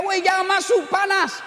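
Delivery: a villager shouting a panicked warning at a stranger; shouted warning. Retold or imitated. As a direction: yell at him not to go in. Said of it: "Dia mau teriak".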